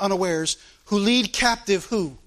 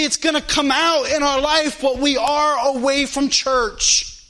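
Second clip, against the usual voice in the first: slightly raised, driving pulpit delivery; insistent preaching; 4 semitones higher than usual. Real, not acted. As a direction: warn the congregation with conviction. Preaches warning about hiding sin.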